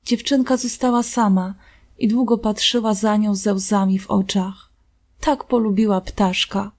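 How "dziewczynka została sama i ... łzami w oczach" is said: plain reading voice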